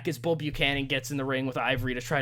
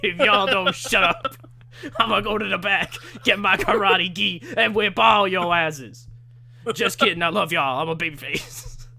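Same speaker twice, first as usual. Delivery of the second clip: mock threat; 3 semitones higher, 4 dB louder than usual. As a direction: threaten the crowd, half laughing. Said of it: "He's like".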